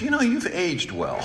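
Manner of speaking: high, chuckling through the words; laughing backhanded compliment. Retold or imitated. Shopper at Hy-Vee complimenting his looks, chuckling. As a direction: offer a clumsy compliment, amused.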